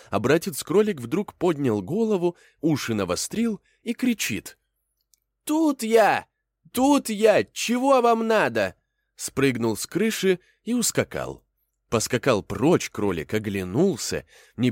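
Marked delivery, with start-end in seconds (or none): 5.4-8.8 high, loud shout of a rabbit; rabbit calling out. Acted. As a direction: yell it back across the field, pitched way up.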